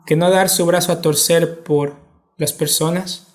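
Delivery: usual speaking voice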